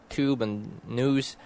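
"tube and news" as "toob and nooz"; American yod dropping. Shown as a demonstration. Showing younger people's speech, American "toob and nooz". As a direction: say "tube and news" slowly, with no y-glide. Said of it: "say it like, uh, most Americans do".

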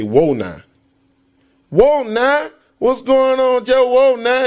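New Orleans slang. Retold or imitated. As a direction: greet Jeff like a New Orleans friend. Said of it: "they have this slang".

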